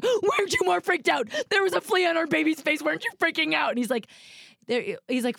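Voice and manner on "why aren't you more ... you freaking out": high, insistent mock outrage at husband; wife's mock outrage at her calm husband; exasperated. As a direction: demand an answer, half laughing. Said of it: "so calm during this that I was like".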